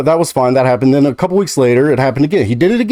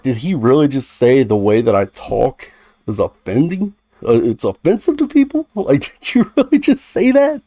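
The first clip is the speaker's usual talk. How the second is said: disbelief. Retold or imitated. Stunned by friend's remark.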